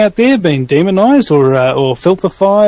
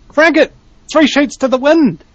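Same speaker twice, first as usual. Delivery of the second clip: hyped up; 9 semitones higher than usual. Acted. Hyped rallying cries.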